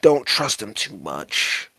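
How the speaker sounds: soft, dropping to a near hush; whispering. Acted. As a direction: lean in and keep it secret between you two. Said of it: "whisper into her ear".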